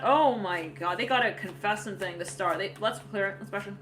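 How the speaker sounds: ordinary talk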